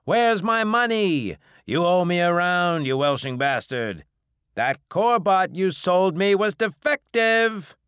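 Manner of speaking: high, loud, indignant yelling; angry creditors. Acted. Bar regulars dunning the captain who owes them, angry shouting. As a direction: yell your grievance across a crowded bar.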